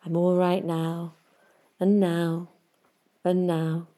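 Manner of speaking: gentle hypnotic chant, long pauses between; slow hypnotic voice. Shown as a demonstration. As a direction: lull yourself with each word. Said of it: "in this slow, slightly deeper, hypnotic voice".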